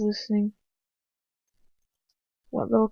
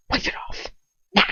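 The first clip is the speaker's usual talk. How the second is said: cold command; faster than usual. A narrator's reading. Captor coldly orders her to wipe his boots.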